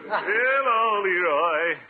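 high, loud, laughing hello; delighted greeting. Acted. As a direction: greet him with a big laugh.

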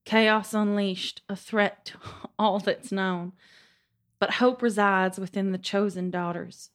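epic fantasy narrator. Acted. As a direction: read it like an ancient epic poem. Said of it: "That was beautiful".

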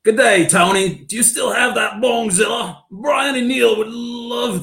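high, loud put-on alien voice. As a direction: shout it like a strange alien. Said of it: "read this in one of the four characters".

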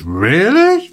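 mock incredulous. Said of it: "looks over at the other guy on the urinal and goes".

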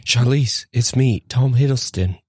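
put-on British accent. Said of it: "none of you actually can really do a British accent".

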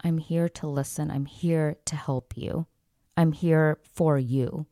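slow, measured reassurance; slow down to reassure an upset customer. Retold or imitated. Manager offering help to an angry man, calm and slow. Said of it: "as soon as I lowered my voice".

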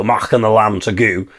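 lightly mocked Scots vowels, "go" said as "goo"; Scottish accent. Imagining the singer reaching the rhyme, light Scottish accent. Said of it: "in a Scottish accent".

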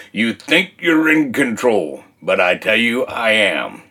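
voice of God. Retold or imitated. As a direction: quietly assert control, dropping low at the end. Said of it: "the voice said to me was".

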